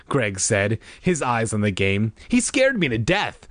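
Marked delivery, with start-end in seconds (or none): 2.3-3.4 shaken, raised exclamation; exclaiming. A narrator's reading. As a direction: blurt it out, still rattled. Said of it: "Sherry exclaimed".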